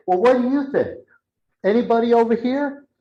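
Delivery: high, inviting questions to a group; lifted, eager presenter voice; smiling presenter. Retold or imitated. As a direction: imitate an upbeat trainee working the room. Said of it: "she's like a different person. She's smiling".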